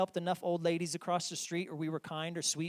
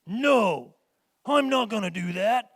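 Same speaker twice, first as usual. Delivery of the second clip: put-on defiant kid; 5 semitones higher, 9 dB louder than usual. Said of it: "and they're like".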